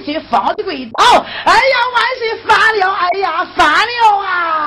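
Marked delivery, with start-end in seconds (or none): 1.4-4.7 wailing complaint. Acted. Minister wails to emperor, begging.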